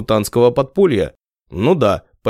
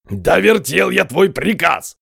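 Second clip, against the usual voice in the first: 1 heated retort; 6 semitones higher, slower than usual. A narrator's reading. Heated quarrel.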